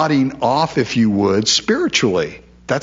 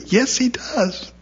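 much higher and slower, drawn out; emphatic insistence; 11 semitones higher, 3 dB quieter, slower than usual. Real, not acted. Preacher assuring doubting listeners, emphatic and slow. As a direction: insist firmly against their doubt.

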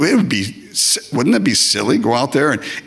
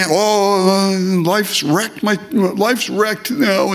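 slow, higher self-pitying whine; mock whining churchgoer; 4 semitones higher, much slower than usual. Preacher mocks people complaining at church, slow higher whine. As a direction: drag out the complaint pitifully.

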